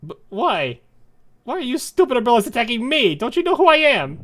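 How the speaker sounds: high, loud indignant shriek; outraged villain. Acted. Villain attacked by her own umbrellas, outraged shrieking. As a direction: explode at the traitorous minions.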